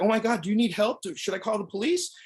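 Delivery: mock alarmed church volunteer asking to help; scared old lady. Ruth answering the prank call, mock frightened.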